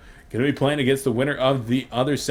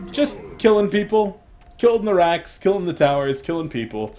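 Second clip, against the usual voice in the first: rising hype call; excited play-by-play; 5 semitones higher than usual. Acted. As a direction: build the hype, then drop.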